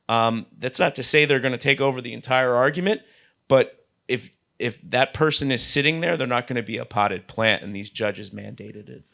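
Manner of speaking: hoarse from a recent cold; a raspy, sick voice. Real, not acted. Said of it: "Sorry for my raspy voice".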